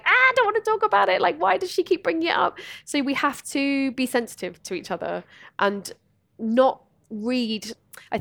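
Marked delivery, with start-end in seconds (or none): 0.0-2.6 mock uncomfortable. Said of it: "all the other people are like".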